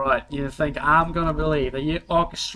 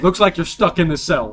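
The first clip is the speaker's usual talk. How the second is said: louder Australian take, a laugh in it; Australian guard voice; 3 semitones higher, 7 dB louder than usual. Acted. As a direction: deliver the line as the Aussie guard. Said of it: "Did he actually just say".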